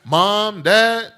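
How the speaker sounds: put-on high, whiny, hurt kid pleading with parents; grieved child. Pastor imitating a child asked twice, high and hurt. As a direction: sound like a kid who already answered twice. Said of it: "child would be grieved with you".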